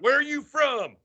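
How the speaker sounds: high, demanding question; gruff border guard. Retold or imitated. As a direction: bark it like a guard. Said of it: "I get a Marine and be like".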